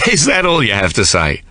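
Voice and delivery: laughing, teasing question; amused. A narrator's reading. Ben laughing at Sarah's reaction, amused tease. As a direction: still chuckling as he asks. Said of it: "Ben throws back his head and laughs".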